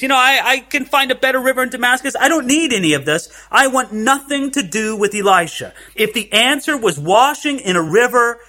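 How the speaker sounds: a hint of offended pride; huffy Naaman. Preacher acts proud Naaman dismissing the Jordan, lightly huffy. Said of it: "went away in a rage".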